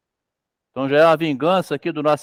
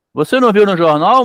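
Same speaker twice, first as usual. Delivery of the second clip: put-on insistent child; 4 semitones higher, 7 dB louder than usual. Boy insisting to mother.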